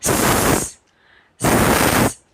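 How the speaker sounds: स as a loud hiss, no vowel; phonics s sound. Shown as a demonstration. Teacher showing the s sound as a hiss. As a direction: hiss out स with just air. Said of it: "हम इसकी सिर्फ sound निकालेंगे".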